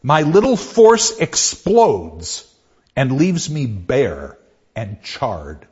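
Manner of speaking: slow, deliberate poem recital; poem reading. Acted. Lecturer reading a Dickinson poem to class, slow recital. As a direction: let the last words sink, slowly.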